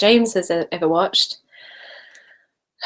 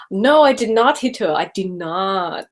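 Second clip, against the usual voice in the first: The Room quote. Acted. Vlogger quoting The Room to viewers for fun, hammed-up. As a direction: quote a bad movie line melodramatically. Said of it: "gonna be doing the room quotes".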